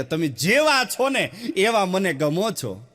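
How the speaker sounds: fond bride-to-be cooing; sweet, slow lover's tone. Retold or imitated. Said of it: "આખો tone અલગ હોય".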